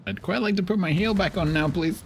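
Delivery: high prim pleading voice; high overly polite request; mock polite plea. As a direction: ask like a fussy polite aristocrat. Pleading with the game.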